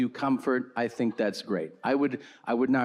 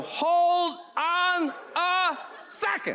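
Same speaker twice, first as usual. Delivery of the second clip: mock astonished; slower than usual.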